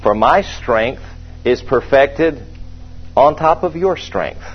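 slow, casual twisted quote; a light mocking misquote; mock flesh version. Shown as a demonstration. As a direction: toss off the flesh's wished-for verse. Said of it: "The flesh would rather hear the Lord say".

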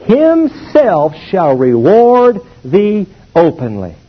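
"himself shall reward thee openly" slow, word by word; emphatic verse reading. Shown as a demonstration. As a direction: spell out the promise slowly, leaning on each word. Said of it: "now you mark this".

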